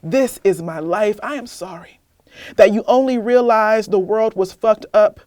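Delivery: measured spoken-word poem, deliberate pauses; spoken word performance; poem reading. Acted. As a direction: read it like a testimony, steady and grave. Reads her poem aloud.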